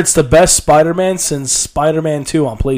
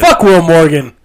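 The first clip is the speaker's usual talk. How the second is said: loud, raised mock-hostile shout; joking outburst; 6 semitones higher, 9 dB louder, slower than usual. Ribbing a friend to the co-host, joking shout. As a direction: burst out in pretend hostility. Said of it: "I'm joking".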